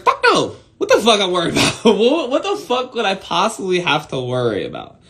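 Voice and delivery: high scoffing laugh through the words. Retold or imitated. Answering a buddy about getting canceled, laughing it off. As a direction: laugh off the question. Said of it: "And I was like".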